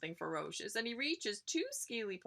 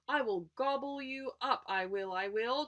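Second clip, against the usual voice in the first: troll bellow; 5 semitones higher than usual. Acted. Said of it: "Troll bellows".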